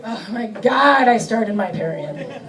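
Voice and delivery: slow, deflated mock groan; weary resignation. Woman in menopause, a slow resigned mock groan. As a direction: drag it out, utterly resigned.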